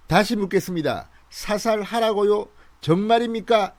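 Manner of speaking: asking in disbelief; quoting a soldier. Retold or imitated. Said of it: "이렇게 북한군이 묻습니다".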